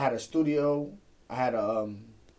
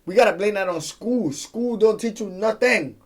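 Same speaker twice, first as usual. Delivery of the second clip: heated rant; 6 semitones higher, 8 dB louder than usual. Real, not acted. Ranting about school.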